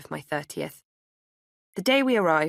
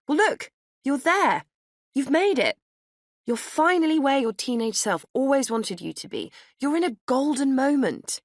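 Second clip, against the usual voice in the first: high, louder rousing pep talk; enthusiastic encouragement; 9 semitones higher, 4 dB louder than usual. A narrator's reading. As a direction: lift her spirits, building.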